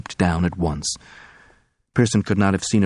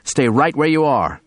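tense warning; 7 semitones higher, 3 dB louder than usual. Acted. Gunman stopping the crowd.

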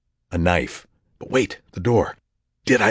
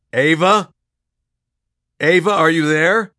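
calling out anxiously; 10 semitones higher, 6 dB louder than usual. Acted. Calling into silent phone.

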